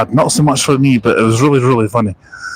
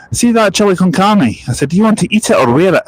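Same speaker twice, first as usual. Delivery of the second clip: mock threat; 7 semitones higher than usual. Retold threat to mate.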